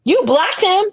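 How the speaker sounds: high shocked question; surprised. Real, not acted. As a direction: gasp out the question.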